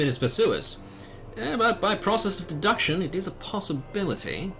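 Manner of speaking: formal game character with lively pitch swings; lightly voiced informant. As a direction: muse aloud like a formal storybook local.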